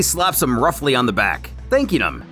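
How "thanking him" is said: usual speaking voice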